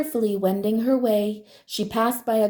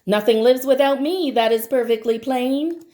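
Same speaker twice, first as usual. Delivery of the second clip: louder proud rain cry; 3 semitones higher, 4 dB louder than usual. Acted. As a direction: call it out like a downpour. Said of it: "cried the rain".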